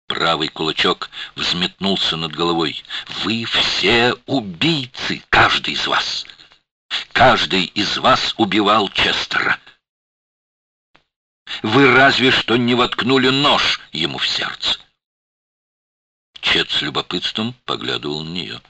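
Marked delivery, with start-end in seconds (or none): 3.2-14.8 furious accusation. A narrator's reading. Shana accusing everyone.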